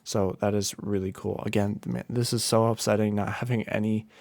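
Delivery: sleepy, worn-out delivery; tired. Real, not acted. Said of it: "Sorry if I sound, like, a little tired".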